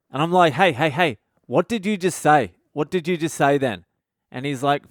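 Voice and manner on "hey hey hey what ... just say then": raised, louder mock telling-off; alarmed scolding dad. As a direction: pull the kid up sharply, acting it out. Dad scolds swearing kid.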